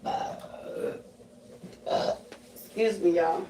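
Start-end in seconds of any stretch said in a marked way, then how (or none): 0.1-2.1 low-volume burps. Real, not acted. Psychic burping out spirits mid-talk, soft burps. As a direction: let out two soft, separate burps. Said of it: "Burping out them spirits".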